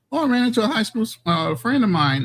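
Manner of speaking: playful high-pitched impression of his partner, quick and chatty; imitating his lady. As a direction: rattle it off high and quick like her. Quoting his lady's excited friend story.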